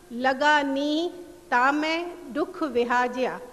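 slow, measured reading of Sufi verse; verse recitation. Acted. Lecturer reciting Baba Farid's couplet to the audience, slow and measured. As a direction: recite the couplet slowly, savouring each line. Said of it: "بابا فرید کے دو اشعار ... پیش کرتی ہوں".

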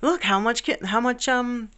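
mock taunting neener voice; bragging gerbil. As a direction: gloat like a gerbil showing off its stash. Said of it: "they're showing off to each other".

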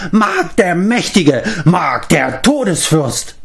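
high, slow, grandiose proclamation; triumphant cry. A narrator's reading. Mark crowning himself, slow triumphant cry. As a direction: proclaim yourself lord, drawn out. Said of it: "schrie er".

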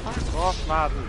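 shouting at Martin, fed up; angry. Real, not acted. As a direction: yell it in frustration. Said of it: "He's so angry".

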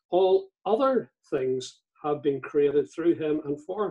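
other leaned on, said with extra weight; reading scripture with other emphasized; stress on other. Shown as a demonstration. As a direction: lean into the word other while reading. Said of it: "I emphasize the word other".

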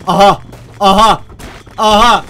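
usual speaking voice

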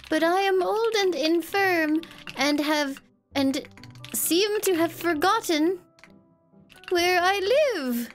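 put-on slow, quavering old granny; frail old lady voice. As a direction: play a helpless confused grandma. Vampire posing as frail old lady.

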